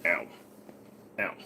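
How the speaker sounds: short yelps of pain. Real, not acted. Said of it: "My legs are killing the shit out of me".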